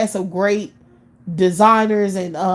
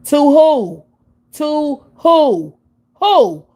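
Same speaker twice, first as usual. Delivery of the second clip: incredulous; 7 semitones higher, 5 dB louder, much slower than usual. Real, not acted. Incredulous repeated question.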